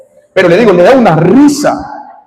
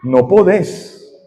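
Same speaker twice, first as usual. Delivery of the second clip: slow, stretched-out, slightly softer taunt; taunting demon; 4 dB quieter, much slower than usual. Retold or imitated. Demon answering the young minister's command, slow lightly voiced taunt. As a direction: drag the words out as a demon's taunt. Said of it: "Y él".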